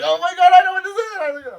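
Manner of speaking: high, loud burst of recognition; excited gasp. Retold or imitated. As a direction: shriek it like a kid opening a gift. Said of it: "I'm like".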